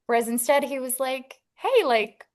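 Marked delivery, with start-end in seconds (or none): 1.6-2.3 retold eager proposal. Retelling Alex's proposal.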